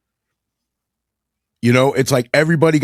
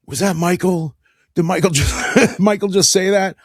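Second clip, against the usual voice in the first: higher, laughing double take; amused disbelief; 5 semitones higher than usual. Acted. Stunned fan hearing Michael curse, amused disbelief. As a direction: stammer it through a laugh, scandalized. Listener shocked at Michael cursing.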